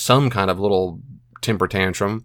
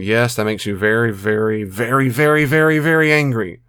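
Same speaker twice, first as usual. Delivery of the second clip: building mock anger; 4 dB louder than usual. Shown as a demonstration.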